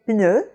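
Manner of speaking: "pneu" with P closed straight into N; unpuffed French P. Shown as a demonstration. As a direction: model "pneu" without a puff, rising. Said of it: "close your lips for the P".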